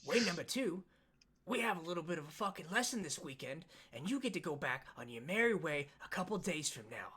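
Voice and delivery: lightly acted stern taskmaster; a hint of a tough drillmaster; lightly voiced tough instructor. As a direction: lay down terms as the instructor.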